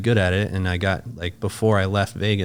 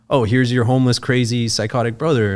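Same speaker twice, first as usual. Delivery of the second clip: higher, mock-cheery presenting voice; sarcastic show-and-tell announcement; mock introduction; 4 semitones higher, 4 dB louder than usual. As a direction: present someone like an embarrassing exhibit. Imagined mock introduction to the family.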